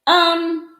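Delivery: losing composure. Real, not acted. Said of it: "I'm having some trouble with my composure".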